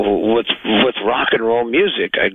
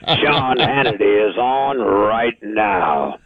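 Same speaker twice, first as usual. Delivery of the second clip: announcer voice; much slower than usual. Shown as a demonstration. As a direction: stretch it like a radio liner. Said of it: "Sir, how are you?".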